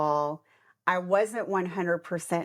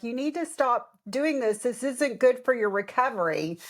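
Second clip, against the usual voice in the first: higher mock-scolding nurse voice; 5 semitones higher than usual. Nurse scolding the vomiting patient, mock-stern. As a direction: imitate the nurse scolding her. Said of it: "she's like".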